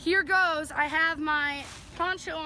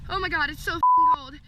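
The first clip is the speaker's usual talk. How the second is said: in ice cold water; 7 dB louder than usual. Real, not acted. Plunged into icy lake.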